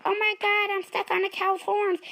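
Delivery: stuck and desperate; panicked farmer. Acted. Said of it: "he was like".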